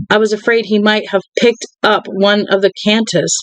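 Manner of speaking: steady read-aloud of a novel, calm and even; story narration. Acted. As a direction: read the book aloud to your viewers. Reads novel aloud to viewers.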